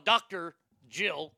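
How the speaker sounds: "Doctor", a little pause, then "Jill"; pause after Doctor. Shown as a demonstration. Host mocking her title, a deliberate pause between "Doctor" and "Jill". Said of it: "I always put a little pause".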